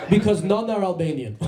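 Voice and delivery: high mock Serbian accent; broken English in a put-on Serbian accent. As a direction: imitate a Serbian driver landing his punchline. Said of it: "his English is so bad".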